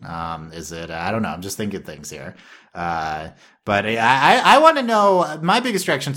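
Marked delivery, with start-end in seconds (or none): 3.7-6.1 excited. Real, not acted. Eager burst of curiosity.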